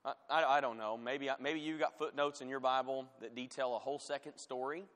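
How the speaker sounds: feigned uncertainty, mildly sarcastic. Real, not acted. Preacher doubting footnotes tell a second story, sarcastic. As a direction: play unsure with dry sarcasm. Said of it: "I'm being sarcastic".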